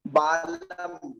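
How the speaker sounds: बालम said slowly with a lips-closed ब; slow demo. Shown as a demonstration. Teacher contrasting lip sounds for students, slow and careful. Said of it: "तो बालम".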